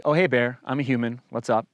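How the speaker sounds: calm greeting. Shown as a demonstration. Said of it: "maybe talk to the bear calmly".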